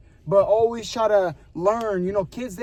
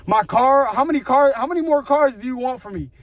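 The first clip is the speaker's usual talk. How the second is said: louder, higher exasperated cry; frustrated outburst at God; 4 semitones higher, 4 dB louder than usual. Retold or imitated. Venting at God over the lost cars, an exasperated near-shout. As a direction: demand it of God like you've had enough.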